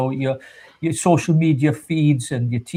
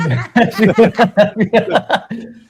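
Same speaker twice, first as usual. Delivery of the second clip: a real burst of laughter; hearty laugh; 7 semitones higher, 4 dB louder than usual. Real, not acted. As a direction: break into a long laugh. Laughing about screen covered in cream.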